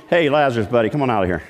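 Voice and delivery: lightly mocked easy buddy call; offhand and friendly, not commanding; casual call. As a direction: toss it off like calling a pal. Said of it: "It wasn't just".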